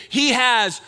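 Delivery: loud emphatic preaching with ALL punched; loud, firm declaration, stressing all; loud, like you mean it. Shown as a demonstration. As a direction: proclaim it out loud with conviction. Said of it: "say that out loud like you mean it".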